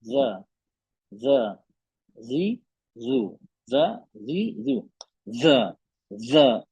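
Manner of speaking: ज and जी and जू said soft and light; touch ज lightly, with no pressure; soft zaal drills; soft letter demo. Shown as a demonstration. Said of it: "बिल्कुल नरम letter है ना".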